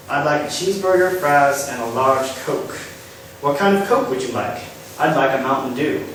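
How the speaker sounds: a terrible mock Southern US accent; lightly put-on Southern US accent ordering fast food; bad southern accent. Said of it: "that was a terrible, uh, attempt at a southern accent".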